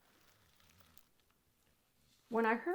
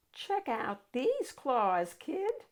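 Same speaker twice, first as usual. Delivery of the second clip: slow, lightly rasped claw boast; rasping monster; 5 semitones higher, much slower than usual. Acted. Third monster showing the kid its claws, slow rasp. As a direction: drag it out like a tough monster. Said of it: "a third voice from under the bed rasped".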